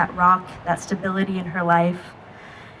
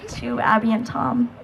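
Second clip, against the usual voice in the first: wedding toast speech; 4 semitones higher than usual. Real, not acted. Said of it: "Can you join me in a toast?".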